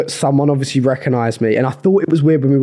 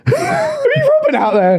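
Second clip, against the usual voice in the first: laughing question; slower than usual. Real, not acted. Teasing about the balaclava.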